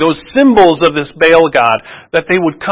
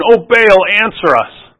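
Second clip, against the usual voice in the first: crying out; 6 semitones higher, slower than usual. Retold or imitated. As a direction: plead upward, then sag. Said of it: "they go to noon".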